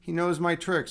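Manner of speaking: high-pitched mock alarm on the uh-ohs; voicing a worried opponent. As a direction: play the rival's dawning panic, drawn out and high. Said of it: "now he's like".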